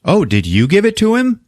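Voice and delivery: high, swooping curious question; doctor. Retold or imitated. Doctor asks the wife about the gift, mock high-pitched query. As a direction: imitate a gushing guest, pitch soaring. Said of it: "and the doctor's like".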